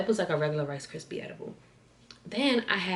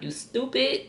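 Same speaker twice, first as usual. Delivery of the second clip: exasperated mom impression, louder and stretched; imitated scolding mom; 3 semitones higher, 6 dB louder than usual. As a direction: scold her like a mother who can't believe it. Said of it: "she was looking at me like".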